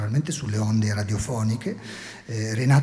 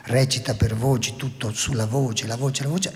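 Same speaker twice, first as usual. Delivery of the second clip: voice giving out; 2 semitones higher than usual. Real, not acted. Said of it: "ho perso la voce proprio stamattina".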